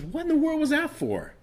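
very high, startled cry; the punched man jumping up in shock, high-pitched; shocked yelp. Retold or imitated. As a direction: squeal it out in shock. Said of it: "he says".

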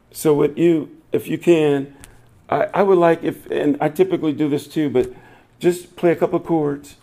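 hushed prayerful invitation; soft altar call. Real, not acted. Pastor inviting the congregation to pray, hushed prayerful call. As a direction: gently lead them into prayer.

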